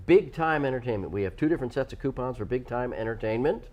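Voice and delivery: a light, vague mock Godfather accent; some kind of accent. Host explaining coupon rules, light Godfather accent. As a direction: lightly put on a gangster accent. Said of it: "So what accent was that?".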